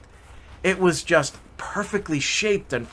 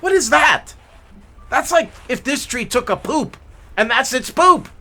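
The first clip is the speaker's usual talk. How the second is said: higher, louder scoff; mocking father; 8 semitones higher, 5 dB louder than usual. Father mocking the mother's small tree, scoffing. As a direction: ridicule the tiny tree.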